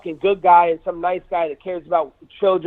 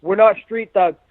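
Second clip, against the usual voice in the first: retold yell; 2 semitones higher than usual. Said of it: "I'm yelling at Usman".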